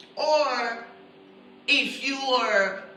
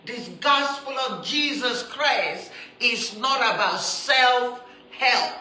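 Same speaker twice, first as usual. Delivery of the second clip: building to a loud punch on self-help; preacher hammering the point a second time; emphatic preaching repeat; 2 semitones higher, 5 dB louder than usual. Shown as a demonstration. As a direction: drive the repeat home, rising to a loud finish. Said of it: "Let me say this again".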